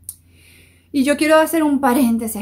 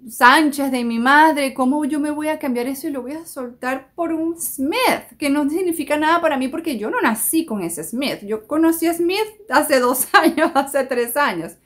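indignant higher complaining woman; mock protest; 3 semitones higher than usual. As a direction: plead your case dramatically. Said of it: "hay muchas mujeres que me dicen". (mujer que protesta indignada)

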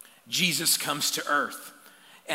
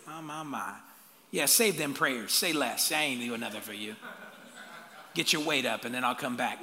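petty judgmental God; 4 semitones lower, 3 dB quieter than usual. Retold or imitated. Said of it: "he doesn't look at you and go".

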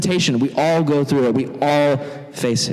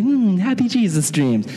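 dreamy sleeper; 4 semitones higher than usual. Acted. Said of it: "He's just dreaming happy Jesus dreams".

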